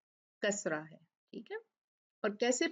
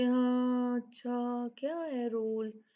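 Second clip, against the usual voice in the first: hesitant student; slower than usual. Retold or imitated. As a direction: play a student stalling for the rule. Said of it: "ये नहीं है सोच के".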